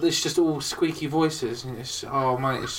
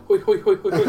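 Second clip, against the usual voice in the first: policeman calls; 4 semitones higher, 4 dB louder than usual. Retold or imitated. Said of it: "old policeman, like that".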